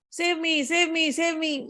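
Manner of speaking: a mild storyteller's cry for rescue; lightly voiced woman's plea, drawn out; lady calling for help. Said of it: "he hears a voice of a lady".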